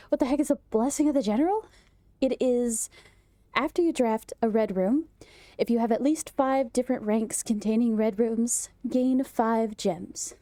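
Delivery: panting after push-ups; winded, reading between breaths. Real, not acted. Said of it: "I gotta catch my breath".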